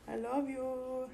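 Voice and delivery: slow soft I love you; soft drawn-out love. Real, not acted. Owner crooning slowly to her cat. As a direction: stretch it out gently.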